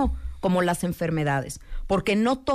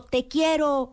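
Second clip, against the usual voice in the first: retold shout; 6 semitones higher, slower than usual. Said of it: "el chavo gritó".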